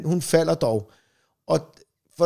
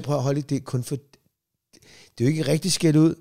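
quietly reassuring, softer than before; soft comforting dad; 2 semitones lower than usual. Retold or imitated. Father comforting his crying daughter, soft and gentle. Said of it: "jeg går op og siger".

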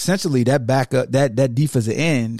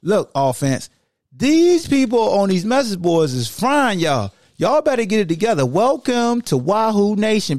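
higher, louder hyped fan rant; 10 semitones higher, 3 dB louder than usual. Pretend. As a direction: rile up the offense as a fan. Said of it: "can I be the pulse of the fan".

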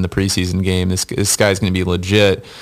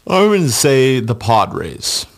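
said through a slow yawn; stretched out mid-yawn, high and slow; 5 semitones higher, slower than usual. Real, not acted. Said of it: "Sorry, I was yawning for a second".

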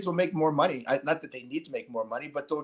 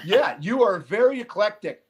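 laughing; 5 semitones higher, 7 dB louder than usual. Real, not acted. Teasing guest about word eclectic.

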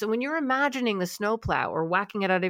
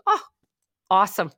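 smug anxiety; faster than usual. Pretend. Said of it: "your anxiety goes".

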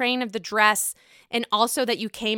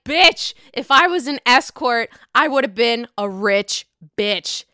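sassy comeback; 5 dB louder than usual. Retold or imitated. Acting out Lisa's comeback.

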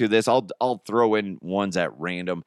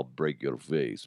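low, slow, quiet Russian menace; deadpan Russian heavy; rich Russian billionaire; 8 semitones lower, 7 dB quieter, slower than usual. Acted. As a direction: threaten softly in a mock Russian accent. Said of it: "I would do that voice".

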